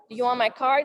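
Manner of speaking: tentative question, rising at the end; unsure, apologetic offer; timid asking. Shown as a demonstration. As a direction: offer it hesitantly, as if asking permission. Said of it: "Instead of saying".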